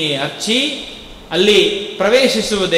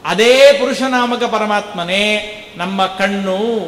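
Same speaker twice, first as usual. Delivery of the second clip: ordinary talk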